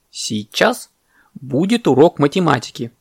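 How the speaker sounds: strict teacher announcement; very stern parrot. Acted. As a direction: announce it firmly, word by word. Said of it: "очень строго сказал попугай".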